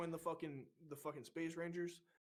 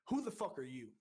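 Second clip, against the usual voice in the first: restrained first challenge, near usual level; retold challenge; 3 dB louder than usual. Recruit leader quizzing his brother division, restrained challenge. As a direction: re-enact a pointed demand without raising the voice. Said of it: "And I just kept getting angry".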